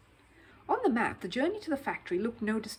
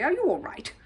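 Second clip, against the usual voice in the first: higher, louder worried call; anxious call; 8 semitones higher, 7 dB louder than usual. Acted. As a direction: call out with concern to the fallen bear. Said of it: "he called anxiously".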